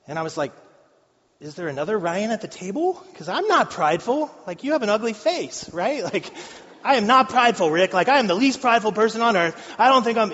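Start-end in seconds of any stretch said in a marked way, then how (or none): 1.4-6.0 higher, half-joking outraged denial; retold indignant protest. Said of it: "I just go off". 6.8-10.3 louder and higher, mock-heated protest; retold rant. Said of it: "I just go off".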